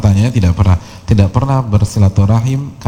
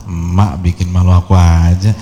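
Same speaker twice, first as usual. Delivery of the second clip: mock scolding of mother. Embarrassed teacher complains to mother before his students, mock scolding. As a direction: imitate an embarrassed son protesting, pitch leaping up. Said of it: "Ngamarin ibunya".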